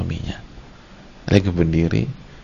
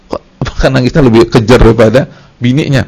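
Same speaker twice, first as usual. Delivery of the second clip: mock suspicion; 3 semitones higher, 10 dB louder than usual. Mock suspicion about the maid.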